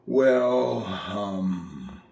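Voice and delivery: put-on low, throaty old-man hemming; rocky, creaky old fellow; gravelly old man. Shown as a demonstration. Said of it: "Think of, like, an old man".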